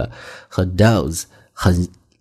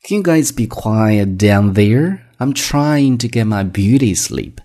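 impatient; 3 semitones higher, slower than usual. Acted. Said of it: "很不耐烦的语气嘛".

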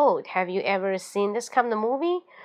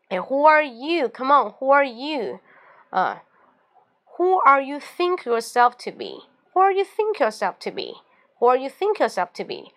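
raised, indignant challenge; angry challenge; 4 semitones higher than usual. Shown as a demonstration. Angry at a boasting friend, indignant challenge. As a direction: throw it back at a boaster. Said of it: "you feel so angry and say".

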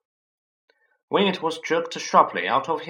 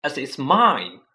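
furious; 3 semitones higher, 7 dB louder, slower than usual. A narrator's reading. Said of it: "said Harry furiously".

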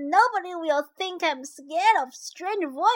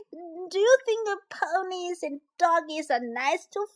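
tearful; 2 semitones lower, 3 dB quieter than usual. Acted. Worried question.

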